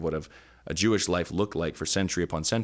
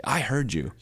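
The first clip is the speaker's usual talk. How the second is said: put-on high, indignant child voice; a lightly voiced whiny child; kid's retort; 6 semitones higher than usual. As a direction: play the protesting kid. Kids answering parent.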